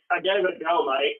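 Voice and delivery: bad go at an Australian accent; amateur Aussie accent, played for laughs; Australian accent attempt. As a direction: have a light, clumsy try at Australian. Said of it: "it's probably a terrible Australian accent".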